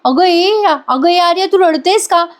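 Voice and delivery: lightly voiced anxious young wife; Nandini questioning Arya. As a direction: demand answers, puzzled and urgent.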